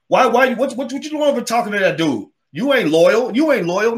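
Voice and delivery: hammed-up possessive partner demanding loyalty; jealous boyfriend. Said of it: "like a jealous, insecure boyfriend".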